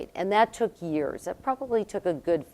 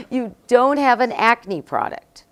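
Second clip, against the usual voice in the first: imitated Costa Rican accent. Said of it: "he says in his accent".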